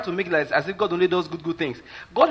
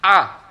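mocking scoff; 2 semitones higher, 7 dB louder than usual. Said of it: "You were mocking".

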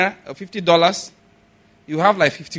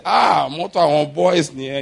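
Yoruba phrase; 3 semitones lower, slower than usual. Retold or imitated. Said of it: "he spoke in Yoruba".

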